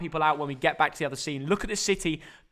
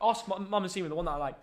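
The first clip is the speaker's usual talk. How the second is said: quiet aside; 2 semitones lower, 9 dB quieter than usual. Real, not acted. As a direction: drop your voice and fumble for the word. Off-stream aside about his tea order.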